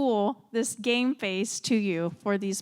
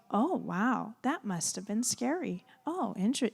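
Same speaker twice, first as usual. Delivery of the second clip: calm response. Shown as a demonstration. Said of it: "you just calmly start talking".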